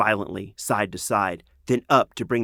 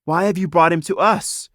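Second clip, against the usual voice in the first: suspicious demand; 9 semitones higher, 6 dB louder than usual. A narrator's reading. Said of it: "Suspiciously, Gamella demanded".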